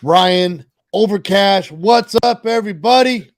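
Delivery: groggy early morning voice; rough just-woke-up voice. Real, not acted. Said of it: "Got my morning voice".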